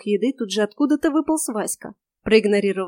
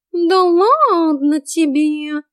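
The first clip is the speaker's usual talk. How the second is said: high, very slow, louder cat voice with a sulk; sulky cat; 7 semitones higher, 7 dB louder, much slower than usual. A narrator's reading. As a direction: pout like an offended cat. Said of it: "набычился Васька".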